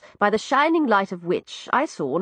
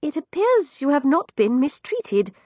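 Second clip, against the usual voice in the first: wry; 6 semitones higher than usual. Acted. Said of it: "Speaking wryly".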